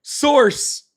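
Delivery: high, laughing mock demand for sources; mock debater, laughing. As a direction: laugh through a pretend debate comeback. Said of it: "throwing out stats and frickin'".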